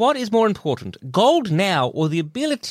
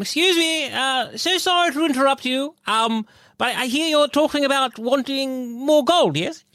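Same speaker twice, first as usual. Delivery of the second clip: high polite voice; 6 semitones higher than usual. Acted. Player character's polite approach.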